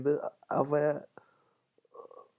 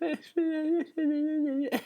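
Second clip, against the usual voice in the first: high squealing laugh. Real, not acted. Laughs at crying playboy.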